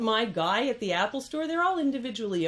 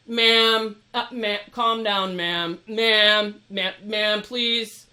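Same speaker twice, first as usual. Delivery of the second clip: mock condescending staff voice, louder on each ma'am; dismissive ma'am; 6 dB louder, much slower than usual. Imitating Apple staff shushing a customer, condescending. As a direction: talk down to her like a clerk calming a customer. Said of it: "what I call getting ma'ammed".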